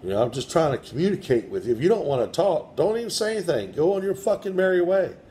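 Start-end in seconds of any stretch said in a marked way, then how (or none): 1.8-5.1 much higher, fed-up dismissal; exasperated. Real, not acted. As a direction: wave them off in frustration. Exasperated at silent spirit.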